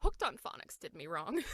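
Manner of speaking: laughing rueful quip. Retold or imitated. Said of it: "And I went".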